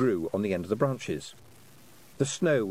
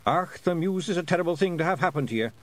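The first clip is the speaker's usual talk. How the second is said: higher, lightly Scots Feegle voice; Scottish pixie grumble; 6 semitones higher than usual. Acted. Rob Anybody complaining to Tiffany about the poet, Feegle voice. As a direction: grumble as if covering your ears. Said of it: "said Rob Anybody".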